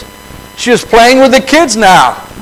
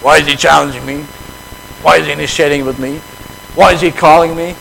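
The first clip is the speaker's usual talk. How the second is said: grumbling; 3 semitones lower, faster than usual. Retold or imitated. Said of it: "I would have attitude".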